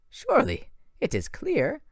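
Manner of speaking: a bitter monster boasting of revenge; French-accented villain. A narrator's reading. Manticore again.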